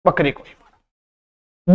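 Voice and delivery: slow बकरी को ही मारा, weight on ही; slow emphatic demo of ही; stress on बकरी को ही. Shown as a demonstration. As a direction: drag out बकरी को ही, pressing ही. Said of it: "बल दे रहा है".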